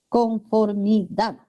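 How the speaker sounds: Conformidad said slowly, syllable by syllable, stressing final DAD. Shown as a demonstration. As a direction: draw out Conformidad and land on DAD. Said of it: "Aquí está la sílaba tónica".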